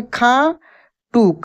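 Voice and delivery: खाटू said slowly, the टू held long; slow stressed word. Shown as a demonstration. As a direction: draw out खाटू. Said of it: "कैसे लिखेंगे?".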